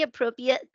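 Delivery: "appropriate" as uh-PRO-pee-it, second r missing; teasing quote of "appropriate" said uh-PRO-pee-it; mimicked mispronunciation. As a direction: imitate a slip, dropping the second r in "appropriate". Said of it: "like a three-year-old".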